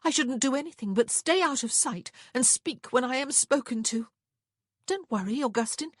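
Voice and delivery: high, loud, sarcastic retort; bitter. A narrator's reading. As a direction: pour out bitter compliance, pitched high. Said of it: "Prudence said bitterly".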